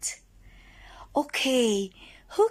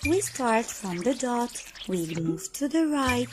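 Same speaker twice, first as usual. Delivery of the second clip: slow tracing instructions; 4 semitones lower than usual. Shown as a demonstration. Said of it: "One more time".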